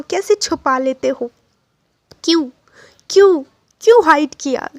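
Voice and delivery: Wing's emotional demand. Acted. Wing realises the boy's love and demands an answer, heated. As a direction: demand the truth, shaken.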